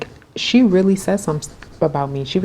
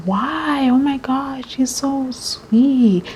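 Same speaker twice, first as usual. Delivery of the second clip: put-on high girly voice, much higher, stretched out slowly; mock the gushing classmate, pitched way up; imitating Zoe; 9 semitones higher, much slower than usual. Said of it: "And then she was like".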